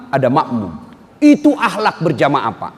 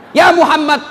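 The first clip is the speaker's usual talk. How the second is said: indignant angel; 7 semitones higher than usual. Acted. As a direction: press the offer to destroy them. Angel Jibril's outraged offer. (malaikat geram, lebih tinggi dan keras)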